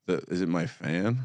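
buzzing line interference; phone interference buzz. Real, not acted. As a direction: voice with electrical hum. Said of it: "there's just a ton of feedback in there".

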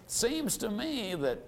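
soft, halting objection with long pauses; timid, hesitant. Acted. Timid prospect objects to the price, hesitant. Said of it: "a little timid or a little hesitant".

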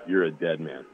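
quiet, low mock menace; low retold threat. Lineman threatening the center who spat, low menace. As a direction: deliver a death threat low and soft. Teammate's threat acted out in story.

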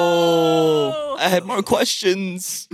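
drawn-out, mock-tearful protest; mock wail. Adventurer protesting as the informant disappears, mock wail. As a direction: wail it in exaggerated dismay.

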